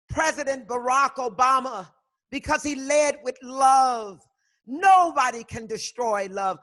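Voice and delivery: loud, high, impassioned declaration; passionate. Real, not acted. Defending Obama against Trump's attacks, loud and high. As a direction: preach it, rising loud and fervent.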